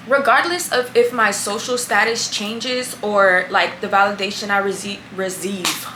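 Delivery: tripping over words with retainers; wearing a retainer. Real, not acted. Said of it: "I really can't talk right now".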